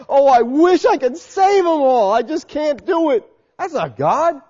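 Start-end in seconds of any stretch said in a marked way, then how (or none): 0.1-3.3 higher, louder whiny lament; mock frustrated God. Preacher parodying a frustrated God who can't save all, whining. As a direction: play a helpless, sighing deity. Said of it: "People think God's frustrated, like".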